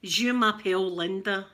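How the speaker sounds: schoolbook French in a Glaswegian accent; halting French, Glaswegian vowels. Shown as a demonstration. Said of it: "it's still Glaswegian French".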